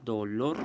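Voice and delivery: dolor with the weight on lor; stress on final syllable. Shown as a demonstration. Teacher showing the tonic syllable, stress on the end of dolor. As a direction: say dolor carefully, drawing out the last syllable lor. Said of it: "que sería en la sílaba lor".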